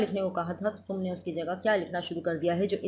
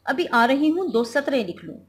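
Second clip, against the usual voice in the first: louder, higher mock call to the child; 4 semitones higher, 5 dB louder than usual. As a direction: call over your shoulder, mildly hurried. Wife calling out. (बच्चे को ऊँची आवाज़ में पुकारना)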